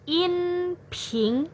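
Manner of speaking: inping said high and level; inping on a high even pitch; first tone name. Shown as a demonstration. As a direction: say inping high and flat, held steady. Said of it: "nada pertama ini disebut juga dengan".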